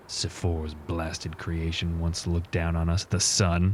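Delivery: slow, hushed, solemn pronouncement; in-character war leader. Acted. Leader telling warriors of the nightfall plan, grave and slow. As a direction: lay out the plan gravely, unhurried.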